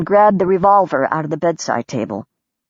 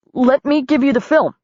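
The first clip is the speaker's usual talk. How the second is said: high, lightly voiced nervous plea; pleading; 7 semitones higher than usual. A narrator's reading. Nervous photographer pleading with an armed woman. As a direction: beg her to take the film.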